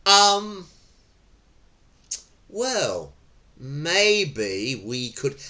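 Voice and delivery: slow calming descent; leading down. Shown as a demonstration. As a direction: ease them down gradually. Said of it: "what you can try and do is to just go".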